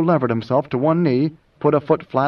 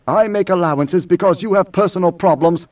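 higher, stiffly patronizing; condescending; 4 semitones higher than usual. Acted. Idaho excuses Moneo's outburst, condescending. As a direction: make a show of tolerating him.

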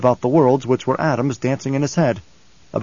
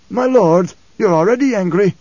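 louder pointed retort; 7 semitones higher, 6 dB louder than usual. Acted. Old man rebukes angry prince.

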